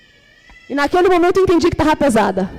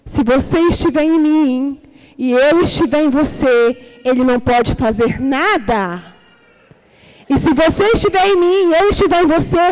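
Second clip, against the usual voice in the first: voice of God. Retold or imitated. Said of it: "E a voz dizia assim".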